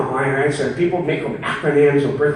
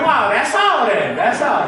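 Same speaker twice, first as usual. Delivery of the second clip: higher, slow astonished "wow"; mock amazement; 7 semitones higher, slower than usual. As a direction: react in mock disbelief, pitched up. Acted quote of his amused reaction.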